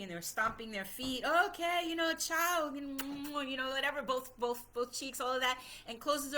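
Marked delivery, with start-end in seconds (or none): 1.2-4.0 pretend goodbye. Papa and grandmother tricking the child, pretend goodbye. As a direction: imitate a staged goodbye. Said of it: "pretend he was leaving".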